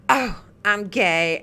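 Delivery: lightly imitated flamboyant man, drawn out; mock gay-boy voice. Griping about a showy local guy, lightly mocking his gay-boy voice. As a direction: stretch it out in mild flamboyant mimicry. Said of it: "the whole gay boy voice that you were doing".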